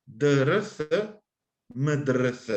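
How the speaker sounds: "Drs" and "mdrs" as clipped consonant clusters with no vowels; bare consonant roots. Shown as a demonstration. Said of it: "compuesta por tres consonantes".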